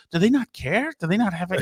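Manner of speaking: mildly mocking a baffled reporter; Katie Tur. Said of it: "Katie Tur's like".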